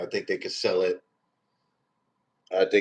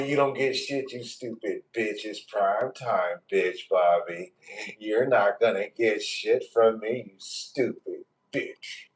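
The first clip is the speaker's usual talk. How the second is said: mock menacing taunt; 4 dB quieter, slower than usual. Roasting a viewer named Bobby.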